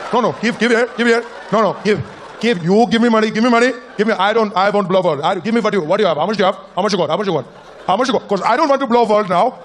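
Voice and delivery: a courteous Indian villain making threats; Indian villain accent. Acted. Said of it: "Mastermind Rajesh".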